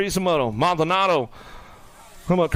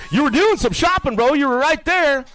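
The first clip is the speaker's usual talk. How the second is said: teasing rider; 10 semitones higher, 4 dB louder than usual. Pretend.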